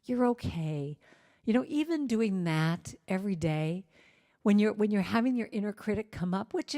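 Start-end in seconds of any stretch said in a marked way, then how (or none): 0.0-1.0 put-on whispered, tender comfort to a baby; soothing whisper. Soothing herself like a baby, whispered and tender. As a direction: hush it like you're rocking a baby. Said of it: "You would stroke it. You would say".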